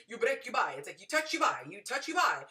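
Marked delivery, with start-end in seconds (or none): 0.1-0.7 loud mock Italian street-seller accent; mock Italian vendor. Telling viewers about Rome, loud mock Italian vendor. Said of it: "that's not a Roman accent at all". 1.0-2.4 high, loud mock Italian vendor accent; pushy Roman seller, hammed up. Retelling a Rome trip, higher louder mock Italian vendor. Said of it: "that's not a Roman accent at all".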